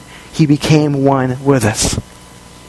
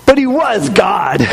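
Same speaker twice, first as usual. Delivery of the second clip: dismissive retort; 4 semitones higher, slower than usual. Retold or imitated. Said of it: "we go".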